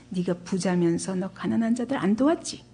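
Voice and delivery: retold accusations, pressed as leading questions; condemning. Friends list Job's supposed sins to him, condemning. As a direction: play the accusers passing judgement. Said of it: "이래가면서 정죄하는 거예요".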